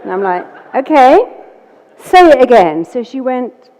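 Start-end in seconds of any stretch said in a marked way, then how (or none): 0.8-2.8 urging. Retold or imitated. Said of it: "coaching her to repeat".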